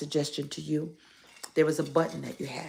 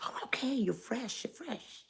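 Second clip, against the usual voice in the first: mock scolding; 8 semitones higher, 6 dB quieter than usual. Playfully scolding the toy.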